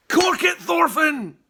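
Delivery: loud booming order. A narrator's reading. Angry chief cuts off the polite boy, booming loud. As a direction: boom it out to shut him up. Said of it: "boomed Eric".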